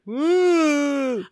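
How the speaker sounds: high, loud whoop of joy; excited woo. Retold or imitated. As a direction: let out a joyful woo. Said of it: "and we were just like".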